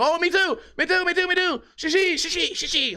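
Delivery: high-pitched, hammed-up eagerness; overexcited diner. Clueless diner joining a sake bomb, high excited mock cries. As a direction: chime in high, playing clueless and thrilled. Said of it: "And I go".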